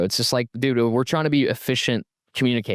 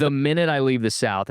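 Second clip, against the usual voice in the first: ordinary talk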